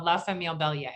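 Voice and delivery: quick, hammed-up French accent on the title; bad French accent. Shown as a demonstration. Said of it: "here is my bad French accent".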